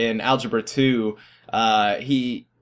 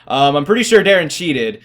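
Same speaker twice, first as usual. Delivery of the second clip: teasing; 4 semitones higher, 6 dB louder than usual. Retold or imitated. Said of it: "he was just joking".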